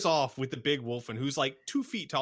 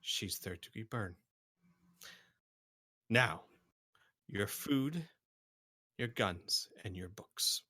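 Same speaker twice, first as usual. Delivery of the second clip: Slash's demand; 6 dB quieter than usual. Acted. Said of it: "the Slash turns back and goes".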